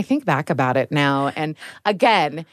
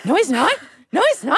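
dismissive mom; 10 semitones higher than usual. Retold or imitated. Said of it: "And I was like".

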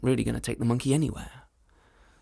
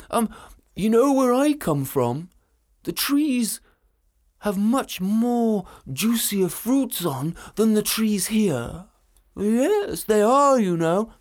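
dragon voice; 5 semitones higher, 5 dB louder, slower than usual. Acted.

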